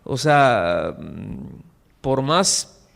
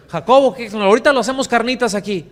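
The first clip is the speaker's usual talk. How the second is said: sarcastic jeer; 5 semitones higher, faster than usual. Retold or imitated. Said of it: "mirada sarcástica".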